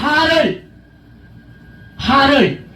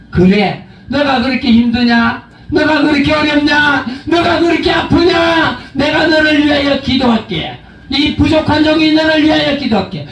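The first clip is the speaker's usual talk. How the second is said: mock compassion; 3 semitones higher than usual. Shown as a demonstration. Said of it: "그 말을 받아가지고".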